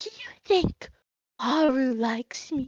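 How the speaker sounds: hushed, soft half-whisper. Retelling how he leans forward and asks you, retelling his half-whisper. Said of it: "he kind of whispers and he goes".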